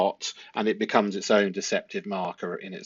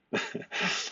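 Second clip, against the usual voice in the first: a tiny breathy giggle; real soft giggle; quiet giggle; 11 dB quieter than usual. Real, not acted. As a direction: laugh under your breath. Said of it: "it makes you giggle".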